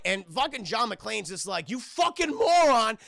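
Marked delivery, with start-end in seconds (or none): 1.7-3.0 higher, louder mock outrage; exasperated. Cop warning a foolish hostage over radio, mock exasperated. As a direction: act out an urgent, angry warning.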